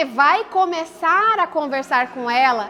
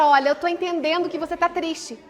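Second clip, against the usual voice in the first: showing understanding; 4 dB quieter than usual. Shown as a demonstration. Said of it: "como quem demonstra".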